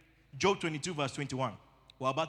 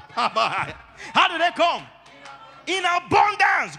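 slow laughing question, louder; laughing, drawn out; 7 semitones higher, 7 dB louder, much slower than usual. Real, not acted. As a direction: stretch it out while laughing.

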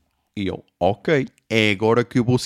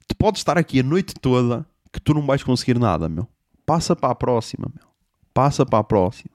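normal talking voice

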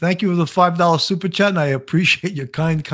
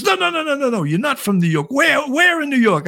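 excited teacher; 8 semitones higher than usual. Retold or imitated. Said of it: "He goes".

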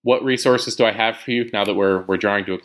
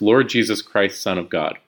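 slow, reverent prayer words; slow prayer demo. Shown as a demonstration. Teacher showing the inhale half of the prayer, slow and reverent. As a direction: pray it slowly, as if breathing in. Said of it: "as we inhale, to pray those first couple words".

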